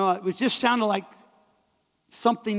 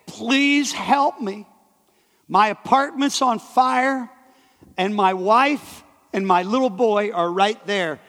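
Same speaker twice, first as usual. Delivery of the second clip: desperate plea; 2 semitones higher, 3 dB louder than usual. Retold or imitated. Young neighbour begging the preacher for help, urgent plea. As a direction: beg a stranger to save your family. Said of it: "he was screaming and begging me".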